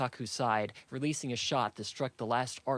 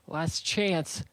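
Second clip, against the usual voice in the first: high, moderately loud narrated scream; screamed warning; 6 semitones higher, 3 dB louder than usual. A narrator's reading. Saku warns the advancing men, in a contained high scream. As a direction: call out a final threat, pitched high. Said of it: "she screamed".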